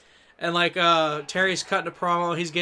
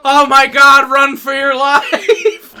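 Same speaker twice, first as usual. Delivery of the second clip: mock panic; 6 semitones higher, 13 dB louder, much slower than usual. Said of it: "He runs to the back to, and goes".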